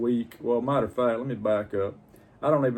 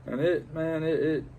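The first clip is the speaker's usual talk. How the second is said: voice breaking; 7 semitones higher than usual. Real, not acted. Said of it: "I'm gonna try not to get emotional".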